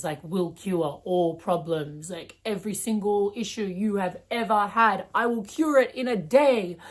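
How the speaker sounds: mock salesman pitch. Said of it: "fake real estate agent type persona".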